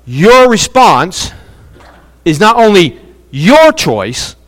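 slow, with "your" stretched before "choice"; deliberate emphatic restatement. Shown as a demonstration. Preacher says it again for the congregation, slow emphatic restatement. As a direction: pause after "response", lean on "your". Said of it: "let me say it again".

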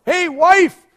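loud, high holler across a room; imitated yell. Inmate calling to his wife across the jail chapel, imitated yell. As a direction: call out over a divider. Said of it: "he yelled over".

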